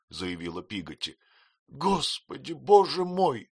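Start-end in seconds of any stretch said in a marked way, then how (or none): 1.7-3.5 high tearful cry, loud at the end; crying out in tears. A narrator's reading. Mother cries out through tears at the maid. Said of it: "плача закричала матушка".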